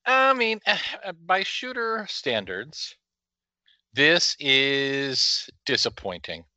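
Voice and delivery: slow, high, drawn-out disappointment; mock lament. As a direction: sigh it out like a weary critic. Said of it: "exaggerated disappointed verdict".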